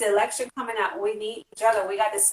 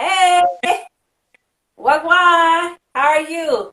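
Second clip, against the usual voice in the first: loud, high, bubbly hello; excited greeting; 7 semitones higher, 6 dB louder, much slower than usual. Real, not acted. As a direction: call out the welcome with real joy, pitched high. Greeting a new guest.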